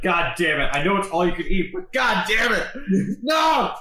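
mock outburst building to a yelp; exasperated owner. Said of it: "the owner of the restaurant is like".

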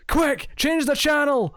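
high, drawn-out mock yell; Zangief. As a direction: yell it out slowly, high-pitched, like a hammed-up movie alarm. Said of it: "and Zangief yells out".

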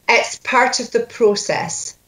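Scottish coach modelling the line; Scottish accent. Shown as a demonstration. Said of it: "You're Scottish all the way through".

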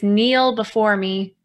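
slow commanding royal threat; megalomaniac rant. Retold or imitated. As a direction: order them down like a tyrant. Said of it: "the threaten is".

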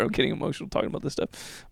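unvoiced, near-whispered, getting emotional; barely holding it together, half-whispering the admission; choked-up emotion. Real, not acted. Apologising to viewers, choked up and near-whispered. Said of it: "I don't like it when I get emotional".

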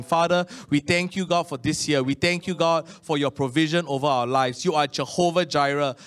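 earnest pastor's prayer, steady and sincere; congregational prayer. Acted. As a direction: lead the church in thanksgiving.

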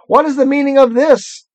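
high, haughty witch demanding answers; evil queen. Acted. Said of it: "asked the witch queen".

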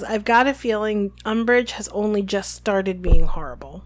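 hushed, ominous whisper; whispered Hermione. Retold or imitated. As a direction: whisper it like a dark warning. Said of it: "And Hermione says".

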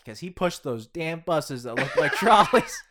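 loud, laughing mock complaint; laughing mock rant. Repeating the trolley gag louder.

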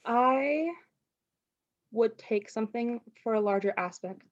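words after a sip of fizzy water; while sipping a drink. Real, not acted. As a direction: talk right after a swallow of soda. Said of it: "I'm drinking a sparkling water over here".

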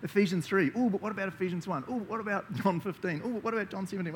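eager. Retold or imitated. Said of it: "I'm like".

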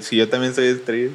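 quoting while laughing. Retold or imitated. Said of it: "esa frase es real, alguien la dijo".

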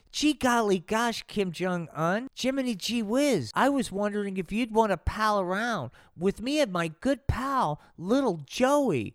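put-on eager kid invitation; bright wholesome invite; asking someone out. Donnie invites Kim to hang.

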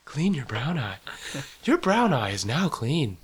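a hint of an automated station voice; lightly voiced robotic announcer; mock machine announcement. Host inventing an eye wash station's messages, mock announcement.

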